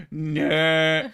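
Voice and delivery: high, loud drawn-out "no"; gasp, then wail it in mock horror; hammed-up cry of dismay. Mock dismay at being roasted.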